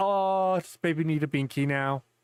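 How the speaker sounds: slow, condescending, mocking cop voice. Imagining what fellow cops would say: imitating a cop mocking. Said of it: "'cause they'd be like".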